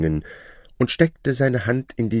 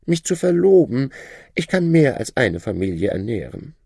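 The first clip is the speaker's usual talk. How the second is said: high, proud voice of a boastful shadow; shadow's voice; 9 semitones higher than usual. Acted. Shadow bragging to his old master, high voice. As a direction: lift the voice high and show off new wealth.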